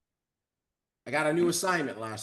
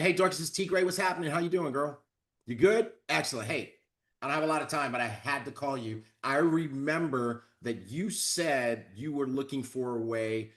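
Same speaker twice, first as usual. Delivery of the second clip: energetic call; 3 semitones lower than usual. Shown as a demonstration. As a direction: sell it with bright confidence. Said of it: "It's the same words, but there's an energy".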